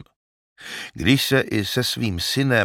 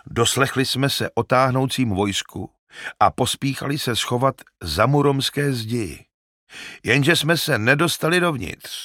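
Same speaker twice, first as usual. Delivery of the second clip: lightly voiced old shepherd, talkative and eager; a hint of a garrulous shepherd telling his news; 3 semitones higher than usual. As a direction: chat on like a simple herdsman talking by the fire, a touch higher.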